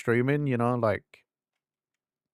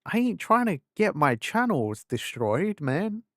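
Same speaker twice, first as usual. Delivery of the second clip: retold protest; 7 semitones higher than usual. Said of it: "I was like".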